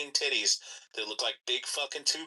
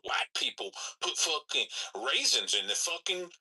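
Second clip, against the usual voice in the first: lightly put-on complaining voice; a hint of mimicry, pitched up in places; mocking quote; 5 semitones higher than usual. Man imitating gatekeepers' complaints, lightly mocking. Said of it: "gatekeep shit and say".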